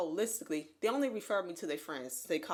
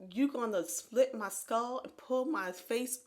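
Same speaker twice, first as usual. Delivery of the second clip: shocked disbelief; 4 semitones higher, 4 dB louder, slower than usual. Retold or imitated. Acting her shocked reply to surgeon.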